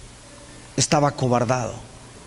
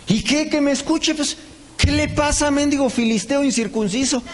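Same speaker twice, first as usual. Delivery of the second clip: defiant outburst; 6 semitones higher than usual. Retold or imitated. David defiant about Goliath's shouting.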